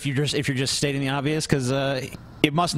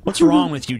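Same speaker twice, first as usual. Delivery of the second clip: mock outrage; 8 semitones higher, 5 dB louder than usual.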